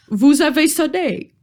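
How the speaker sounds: put-on high, slow British-accented troll. Troll answers the bell, high, slow British accent. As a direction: draw it out in mock British-accented French. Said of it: "charmant accent britannique".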